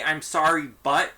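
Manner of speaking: sorry, then hang on "but," as if an excuse is coming; excuse apology. Shown as a demonstration. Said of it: "when I say".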